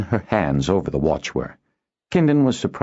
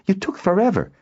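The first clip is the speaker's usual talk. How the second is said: high-pitched testy complaint. A narrator's reading. Noella scolds Kindon for being late, testily. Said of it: "Noella asked testily".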